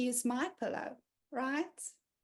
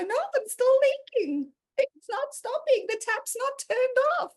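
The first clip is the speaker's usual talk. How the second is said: mock teary wail; 10 semitones higher, 5 dB louder than usual. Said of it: "And I go".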